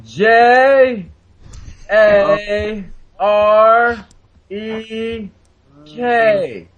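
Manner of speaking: spelling out letters slowly; over enunciating. Shown as a demonstration. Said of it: "let me say this slowly".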